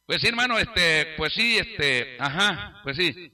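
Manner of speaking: mildly acted hesitation, trailing down; imitating a tongue-tied pastor; awkwardly stalling. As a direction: stall as if unable to say it. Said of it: "quería decirme algo y no podía".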